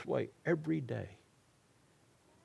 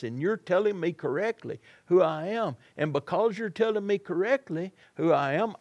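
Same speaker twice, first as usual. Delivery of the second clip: higher, lightly voiced Jesus, praising; a raised, earnest blessing to Peter; 4 semitones higher than usual.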